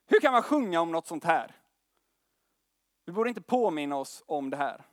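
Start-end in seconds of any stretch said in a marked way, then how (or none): 0.0-1.5 mock angry outburst. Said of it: "så blev han skitarg".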